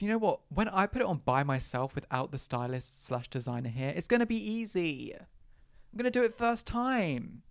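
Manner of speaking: breezy, high, sure-of-myself inner voice; mock confident self-talk. To herself before dressing, breezily overconfident. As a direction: act out the cocky thought.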